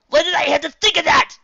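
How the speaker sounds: very high, loud flustered cry; mortified young colt; embarrassed colt. Acted. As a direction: cringe at the memory.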